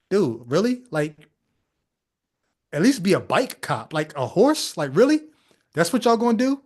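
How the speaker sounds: rising, disbelieving questions; incredulous mockery. Reacting to police on a horse, incredulous. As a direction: question it like it's ridiculous.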